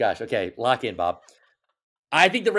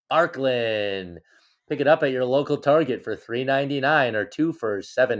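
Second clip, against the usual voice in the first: ad read. Pretend. Mock sponsor ad for ranch.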